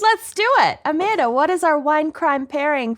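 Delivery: eager "let's do it"; excited. Real, not acted. Excited to drink.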